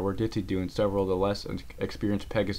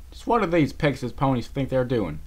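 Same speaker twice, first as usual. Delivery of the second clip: lightly higher disbelief; Applejack voice; 5 semitones higher, 4 dB louder than usual. Acted. Applejack wonders at the Pegasus ponies. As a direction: shake your head at them.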